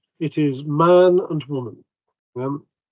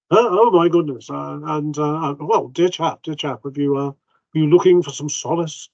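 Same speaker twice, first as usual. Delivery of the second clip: fussy vicar. Acted. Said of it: "he looks at you over his spectacles and goes".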